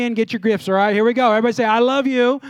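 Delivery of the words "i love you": pumped-up church cheer; excited. Shown as a demonstration. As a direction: say it loud and happy like you're buzzing on Red Bull. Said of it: "like you got Red Bull and you're happy".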